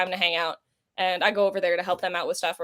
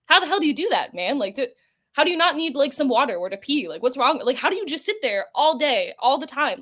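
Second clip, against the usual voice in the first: incredulous; 5 semitones higher than usual. Retold or imitated. Friends asking Todd about marathon signings, incredulous. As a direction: demand to know how on earth he does it. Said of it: "we were like".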